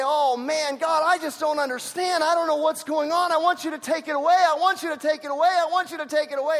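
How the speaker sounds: high, loud, urgent begging; a believer begging God to remove the trouble, pleading; whiny plea to God. Retold or imitated. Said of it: "we say".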